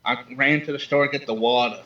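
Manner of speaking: tentative go at a New York accent; attempted New York accent. Shown as a demonstration. Caller copying the host's sample line, attempted New York accent. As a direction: try copying a New Yorker, twang slipping through. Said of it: "can you do a New York accent".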